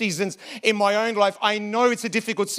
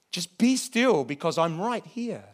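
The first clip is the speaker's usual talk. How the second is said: calm reassurance; 3 semitones lower, 3 dB quieter, slower than usual. Acted. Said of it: "And God is saying to us".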